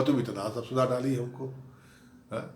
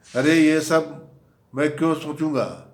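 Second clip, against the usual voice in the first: exasperated protest; 4 semitones higher, 8 dB louder than usual. Retold or imitated. Husband protests to wife.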